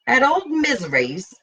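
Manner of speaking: high, incredulous repeat of the place; surprised echo. Acted. Blackie repeats T's answer, high and incredulous. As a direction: Blackie echoing in disbelief.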